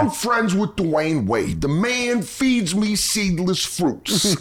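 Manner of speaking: slow it right down, proclaim each word; comic doing a friend's Stephen A. Smith bit; Stephen A. Smith impression. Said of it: "Stephen A. Smith".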